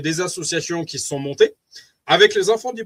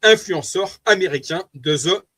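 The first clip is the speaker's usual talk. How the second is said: French-accented English titles; slower than usual. Real, not acted. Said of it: "Vous m'excuserez pour mon accent anglais".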